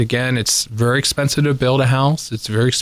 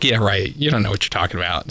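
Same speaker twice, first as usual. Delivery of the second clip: dismissive; 4 semitones lower, faster than usual. Retold or imitated. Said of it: "they're like".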